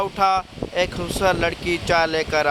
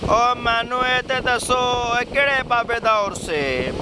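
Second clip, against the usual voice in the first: Punjabi words called out higher and excited over the music; excited Punjabi exclaim; 5 semitones higher than usual. Acted. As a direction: shout it in Punjabi, thrilled mid-dance. Sardar dancing in a nightclub.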